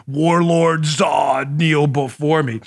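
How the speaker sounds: slow booming alien overlord; slow, commanding Zod impression; General Zod voice. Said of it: "named, like, Zod or something like that out of Superman two".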